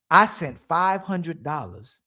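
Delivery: low, slow mock mumble of the guy; mocking quote. Retelling what Fatty said on the show, low slow mock voice. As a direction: drag it out low like you're imitating him. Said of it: "He said".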